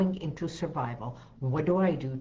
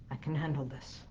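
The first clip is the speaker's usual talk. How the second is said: soft affirmation; 7 dB quieter, faster than usual. Shown as a demonstration. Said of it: "if you do this like a violin".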